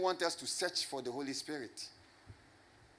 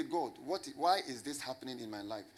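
softer, lower, intimate plea; soft pleading prayer; 3 semitones lower, 6 dB quieter than usual. Pretend. Believer talking gently to God within, hushed. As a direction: murmur it to God close and quiet. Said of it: "You say".

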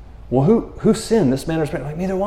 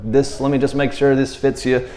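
reassuring Jesus. Retold or imitated. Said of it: "imagine Jesus' voice".

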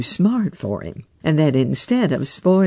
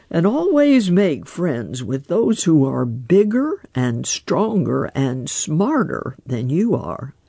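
lightly voiced wise old frog, unhurried; a hint of a croaky old frog musing. Grandfather Frog advises.

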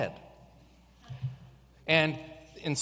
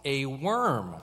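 loud Bible reading building to worm; dramatic reveal; 3 semitones higher, 5 dB louder than usual. Acted. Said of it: "The Bible says".

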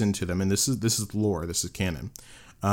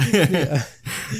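nervous laugh; 7 semitones higher, 4 dB louder than usual. Real, not acted. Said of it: "that was another one".

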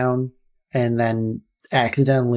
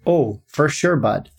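Canadian accent; 3 semitones higher, slower than usual. Shown as a demonstration. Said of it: "I can do just the phrases".

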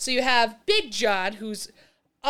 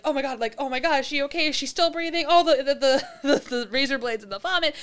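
higher, rushed and stammering; panicked; 5 semitones higher than usual. Retold or imitated. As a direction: babble in panic. Panicked woman retold.

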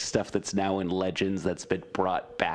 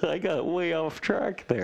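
laughing; 10 semitones higher than usual. Real, not acted. Laughing at own tangent.

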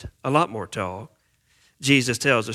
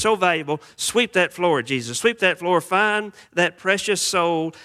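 eager crowd; 3 semitones higher than usual. Retold or imitated. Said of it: "Everybody loves what Jesus is saying".

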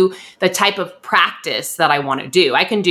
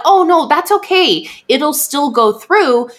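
breezy office staff; 9 semitones higher than usual. Retold or imitated. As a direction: brush off the worry with fake cheer. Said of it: "They're like".

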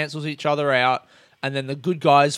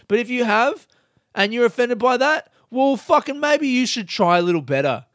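mock scolding; 9 semitones higher, 4 dB louder than usual. Real, not acted. Scolding filmmakers.

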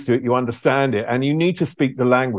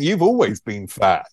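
slower, mock-deadpan comeback; dry retort; 3 semitones lower than usual. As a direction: deliver it slow and flat, a cheeky jab. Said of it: "I felt like saying".

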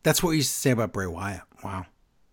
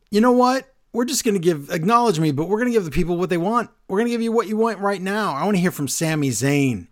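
imitating Roman Reigns; 6 semitones higher than usual. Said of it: "and he says".

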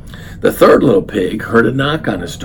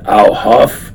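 slow, louder wolf threat; wolf threatening the pig, slow and louder; 5 dB louder, slower than usual. Acted. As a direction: lean on it like a bully wolf. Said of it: "So the wolf said".

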